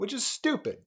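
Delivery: high-pitched mock British delivery; British accent. Host showing how the philosopher said it, mock British accent. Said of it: "he has a British accent".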